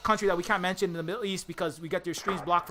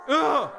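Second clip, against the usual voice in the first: disgusted groan; 6 semitones higher, 5 dB louder than usual. Acted. Reacting with disgust to the patriot.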